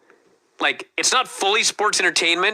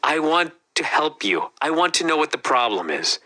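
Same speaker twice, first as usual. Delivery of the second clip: calm coaxing. Retold or imitated. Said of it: "talk this guy off the ledge calmly".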